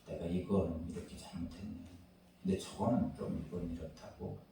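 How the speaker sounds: soft, considerate apology to wife; gentle apology. Retold or imitated. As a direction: talk it through softly, owning the fault. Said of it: "그러면". (아내의 마음을 헤아리며 부드럽게 사과)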